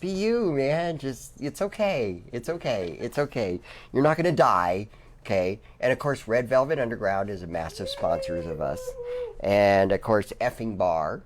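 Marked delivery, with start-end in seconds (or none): 0.0-5.6 calm a nervous friend down; reassuring. Retold or imitated. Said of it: "and you're just like".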